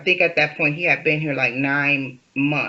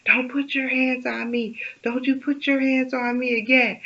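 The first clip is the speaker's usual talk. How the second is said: retold quote; 7 semitones higher than usual. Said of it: "he was like".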